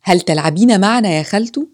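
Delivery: a hint of a pleading kid; child asking. A narrator's reading. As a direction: ask like a child wanting a playmate. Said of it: "عاد الطفل وقال".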